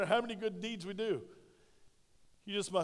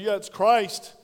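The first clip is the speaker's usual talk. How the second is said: mocking another church; 6 dB louder than usual. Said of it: "another denomination in town that tells you".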